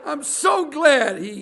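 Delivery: slow words squeezed out through laughter; giggling, slowed reading; laughing through words. Real, not acted. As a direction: try to read while still laughing.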